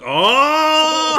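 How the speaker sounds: sharp high startled cry; sudden yelp. Real, not acted. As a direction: yelp in real surprise. Hot sauce hits, sudden cry.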